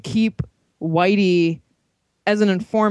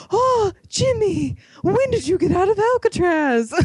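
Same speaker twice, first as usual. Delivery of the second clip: old lady impression; 11 semitones higher than usual. Old lady greeting a gangster in the street, mock old-movie voice. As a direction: imitate a cartoony old gangster-film woman, pitched high. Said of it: "The way that that woman talks".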